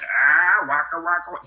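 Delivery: a light Fozzie Bear bit; lightly voiced Fozzie Bear. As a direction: joke like the nervous bear. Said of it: "Fozzie Bear".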